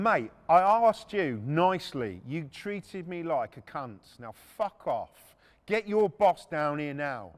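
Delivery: slow, deliberate mock telling-off; cold threat. Retelling telling off the restaurant manager, slow cold threat. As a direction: spell it out slowly, each word a warning. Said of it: "And I'm there going".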